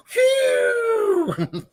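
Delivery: a very high whistle of amazement at the price; a shocked wolf whistle; long whistle. Acted. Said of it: "That's a whistling gopher".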